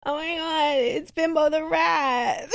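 excited. Real, not acted. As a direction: announce it like a revelation. Excited realization of name.

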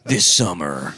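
hammed-up trailer tagline; movie-trailer announcer. Comic ending a fake film promo, trailer announcer. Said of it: "Now you're just in a world".

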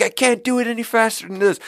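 stressed chef. Retold or imitated. Chef pushing back at the waiter, high and strained. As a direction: protest like a cornered cook.

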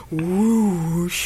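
breathy whoosh sound effect; fake whoosh sound. Shown as a demonstration. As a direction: blow out a long whoosh. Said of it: "I'm gonna do the fake whoosh sound".

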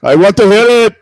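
high, loud hammy plea; mock demanding. Begging co-host to play the resonator, loud mock demand. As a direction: call out eagerly for the music.

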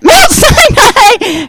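drawn-out, half-crying disbelief; stunned high slow question. Retold or imitated. Repeating the address back to a friend, awestruck and slow. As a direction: let it stretch out in awe.

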